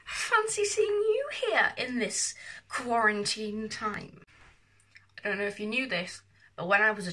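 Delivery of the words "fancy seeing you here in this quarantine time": hammed-up, drawn-out welcome to the audience; theatrical greeting. Vlogger welcomes viewers in quarantine, theatrical greeting. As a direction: greet grandly, stretching the phrase slowly.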